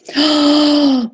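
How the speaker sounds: long, high intake of breath; shocked gasp. Real, not acted. Streamer sees a surprise message, shocked gasp. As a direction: gasp in amazement. Sees the logo she was sent.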